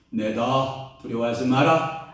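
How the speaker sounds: lightly voiced divine reassurance, building in force; the Lord. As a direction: declare it with growing authority. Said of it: "그러면 우리 주님께서".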